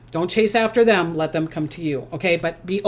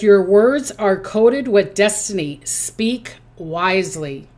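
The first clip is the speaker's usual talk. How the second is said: solemn message; slower than usual. Shown as a demonstration. Reading the Akashic message.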